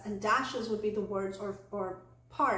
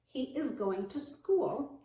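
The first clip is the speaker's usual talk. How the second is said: measured statement dipping on "school"; falling intonation; 2 semitones higher, slower than usual. Shown as a demonstration. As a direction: let "school" fall at the end. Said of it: "pattern is a falling intonation".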